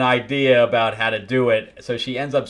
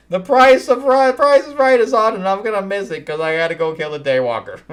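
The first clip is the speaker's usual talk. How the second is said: higher, louder, slowed mock grumbling; grumpy villainess; 8 semitones higher, 6 dB louder than usual. Satana complains to the guys she'll miss The Price is Right, high mock whine. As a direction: whine like a put-upon old lady missing her shows.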